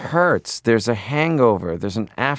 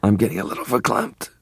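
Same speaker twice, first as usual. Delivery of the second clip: Linda Richman line; faster than usual. Retold or imitated. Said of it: "expressions like verklempt".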